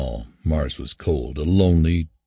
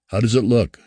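higher, louder eager demand; 6 semitones higher, 4 dB louder than usual. A narrator's reading. Holloway pressing Mason for news of the surface, eager demand. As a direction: press him for an answer. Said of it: "Holloway demanded".

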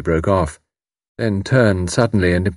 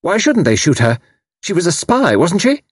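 put-on high, challenging young woman; fierce young voice; 10 semitones higher than usual. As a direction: demand it fiercely, pitch raised. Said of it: "demanded in her fierce young voice".

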